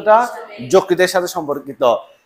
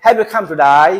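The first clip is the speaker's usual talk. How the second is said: put-on Australian accent; much slower than usual. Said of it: "এরা বলে".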